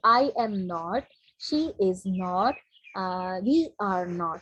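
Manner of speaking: "not" said as its own full word; each word separate and slow, "not" never shortened; careful learner-style "am not", "is not", "are not"; full uncontracted forms. Shown as a demonstration. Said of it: "ऐसे proper".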